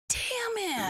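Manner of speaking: high, drawn-out mock wail; mock exasperation. Reacting to sister's news for friends, hammed-up exasperation. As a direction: play up the frustration in a high voice.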